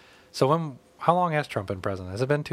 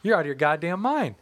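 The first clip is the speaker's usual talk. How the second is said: shocked disbelief; 4 semitones higher than usual. Retold or imitated. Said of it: "And I'm like".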